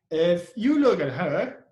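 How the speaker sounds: slow, weighted "if", rising to "her"; stress on IF. Shown as a demonstration. Teacher modelling an if clause, slow stress on "if". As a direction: set up the condition with a strong "if". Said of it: "you put a stress on, on if here".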